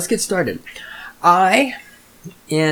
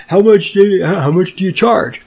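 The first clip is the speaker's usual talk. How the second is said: higher, louder mock customer voice; mocking clueless client; 5 semitones higher, 4 dB louder than usual. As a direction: parody a dim, insistent customer. Mimics people emailing him.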